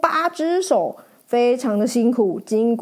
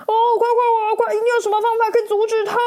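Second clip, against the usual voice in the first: higher, loud, rushed panic; urgent shouting; 11 semitones higher, 4 dB louder, much faster than usual. Acted. Knight shouts to flee the monster, loud and fast. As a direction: hurry everyone, rattle it off. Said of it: "骑士快喊".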